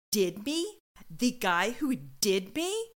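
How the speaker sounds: slow, incredulous echo question; indignant disbelief. Retold or imitated. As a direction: imitate someone offended by the wording. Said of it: "Harper goes".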